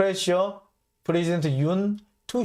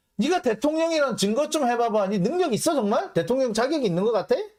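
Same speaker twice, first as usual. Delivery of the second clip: high-pitched, blunt, mocking tone. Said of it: "직설적으로 얘기하면".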